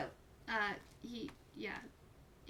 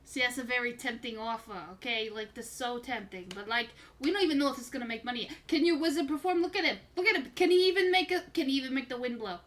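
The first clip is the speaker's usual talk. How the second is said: carnival barker. Acted. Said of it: "Why do you sound like a carnival barker".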